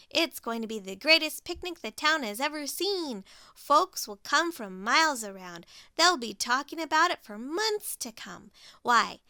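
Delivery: excited Pig. Acted. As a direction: gush about the grand plan.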